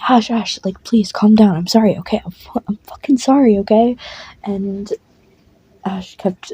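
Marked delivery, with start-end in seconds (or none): 0.1-4.0 exasperated, raised-voice apology; pleading apology. Acted. Larry apologises to furious Ash, pleading and flustered. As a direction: plead with her to calm down.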